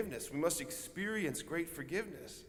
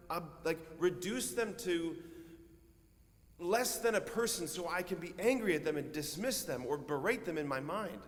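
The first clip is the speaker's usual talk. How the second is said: whiny excuse; 3 semitones higher than usual. Retold or imitated. Voicing his own reluctant reply.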